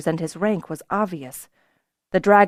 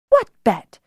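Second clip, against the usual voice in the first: higher, louder breezy demand; airy demand; 5 semitones higher, 7 dB louder than usual. A narrator's reading. Kelsa demands to know about the bet, airy and higher. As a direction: toss the question out lightly. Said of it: "Kelsa demanded airily".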